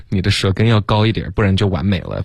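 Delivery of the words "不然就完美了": usual speaking voice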